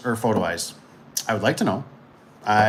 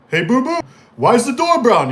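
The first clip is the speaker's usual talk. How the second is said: high, loud put-upon customer voice; mock complaining customer; 11 semitones higher, 6 dB louder than usual. Customer challenging the installer about the door colour, mock complaint. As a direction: call it out high, demanding an answer. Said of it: "and they're like".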